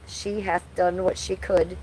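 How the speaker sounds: slow, measured reading of the tattoo; slow solemn recital. Shown as a demonstration. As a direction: read it out slowly like a vow. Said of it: "It says".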